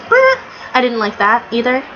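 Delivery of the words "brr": short trilled tank noise; imitated toy tank. Describing the toy tank to viewers, imitated tank noise. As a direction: make a little toy tank sputter. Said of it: "little toy tank and it goes".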